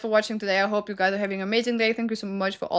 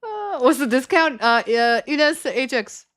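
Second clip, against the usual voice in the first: put-on Moroccan accent. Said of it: "I try to make a Moroccan accent".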